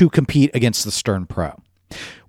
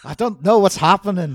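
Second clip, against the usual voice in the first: high, giggly, accent slipping; laughing; 9 semitones higher than usual. Real, not acted. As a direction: laugh through the words. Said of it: "this is my Australian accent".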